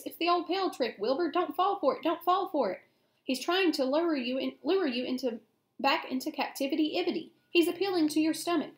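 high, excited pleading; urgent goose warning. A narrator's reading. Goose warns pig of a trick.

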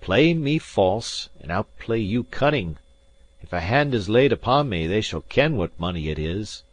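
lightly voiced Scots gentleman, firm and proud; proud Highland gentleman. Gentleman firmly refusing the captain, lightly voiced proud Highlander.

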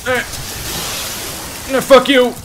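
loud, high angry yell; angry shout. Real, not acted. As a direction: spit it out furiously. Yelling at enemy.

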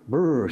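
a light mock shiver sound; shivery brrr. Sonia shivering in the cold wind, light brrr. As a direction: brrr like she's feeling the cold. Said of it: "shivered Sonia".

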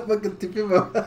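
tiz kahkaha sonra gülerek konuşma; güle güle göster. Real, not acted. Kuşun haline gülme. (izleyicilere gülerek kuşu gösterme)

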